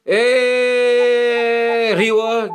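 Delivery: calling out. Acted. Patrol member interrupting two bickering friends, calling out. Patrol elder breaks in on quarrel.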